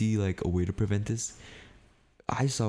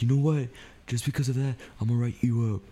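manager's louder, higher-pitched ultimatum; imitated scolding, pitch raised; retold angry threat; 6 semitones higher, 3 dB louder, faster than usual. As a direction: act out an irritated boss threatening. Acting out manager's threat in quarrel.

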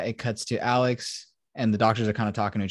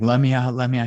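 mild mock yell, raised a little; half-hearted imitation of someone screaming to get out; retold screaming; 3 semitones higher, 6 dB louder, faster than usual. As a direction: imitate frantic pleading without really screaming. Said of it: "He starts screaming".

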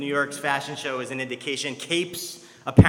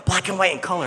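higher and louder, tumbling out fast in places; excited dad; 6 semitones higher, 6 dB louder than usual. Retold or imitated. Dad eagerly showing a visiting friend the Yankee banners, excited. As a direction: gush like a proud fan showing off the stadium. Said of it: "and he's like".

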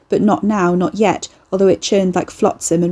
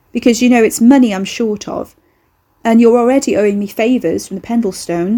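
bargaining woman; 3 semitones higher, 3 dB louder than usual. Acted. Carrie bargaining.

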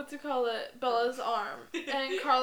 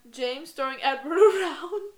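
slow, louder, breaking into laughter; amused, words stretched by laughter; cracking up; 3 semitones higher, 8 dB louder than usual. Real, not acted. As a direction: laugh while talking. Recalling funny scene, cracking up.

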